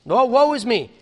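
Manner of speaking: loud, high-pitched wail of woe; hammed-up lamenting; mock lament. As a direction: moan it like a mourner. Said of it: "all the moaning and the groaning".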